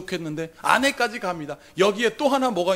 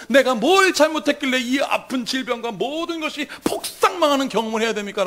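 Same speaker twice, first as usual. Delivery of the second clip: high, insistent questioning; anguished plea; 4 semitones higher than usual. Acted. Job asking God why he suffers, anguished plea. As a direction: press each question as a wronged sufferer.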